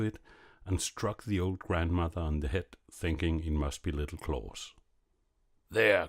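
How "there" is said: cried out. A narrator's reading. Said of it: "cried he".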